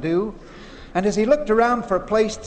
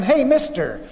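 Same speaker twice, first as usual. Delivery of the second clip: higher-pitched, mildly urgent call; excited call; 7 semitones higher than usual. Retold or imitated. Salesman calls the rancher to the chicken yard, excitedly. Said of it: "he called excitedly to the man".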